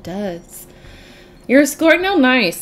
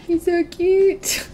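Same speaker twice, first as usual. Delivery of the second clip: laughing gush; 7 semitones higher than usual. Retold or imitated. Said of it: "and I'm like".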